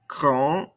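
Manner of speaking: "Grand" rising, left open on the vowel; no D at the end of "Grand"; silent ending consonants. Shown as a demonstration. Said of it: "don't pronounce these ending consonants".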